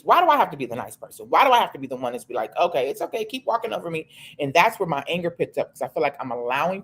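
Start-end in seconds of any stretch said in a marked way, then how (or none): 2.6-4.1 lightly voiced doormat, pitched up; mock pushover. Woman mocking her own habit of giving in, mock pushover. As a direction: mimic yourself politely letting it slide, higher.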